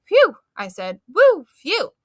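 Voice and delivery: high, loud breathless puffing; out of breath. Acted. Girl catching her breath after the shock, loud panting phew. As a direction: pant it like you just gasped. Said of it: "tried to catch my breath".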